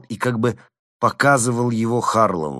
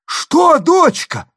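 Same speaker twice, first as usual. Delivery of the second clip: very high, loud mocking answer; booming reply; 9 dB louder, much slower than usual. A narrator's reading. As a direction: roar the reply down. Kharlov answers from roof.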